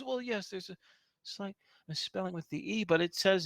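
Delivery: lightly voiced nervous elf. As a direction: hurry through the excuse. Elf explains.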